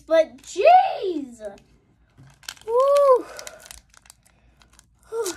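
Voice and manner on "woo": high-pitched celebratory "woo"; relieved, excited high whoop. Real, not acted. Celebrating a great pull.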